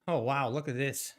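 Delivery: panting between words, out of breath; winded, gasping for air. Real, not acted. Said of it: "I gotta catch my breath".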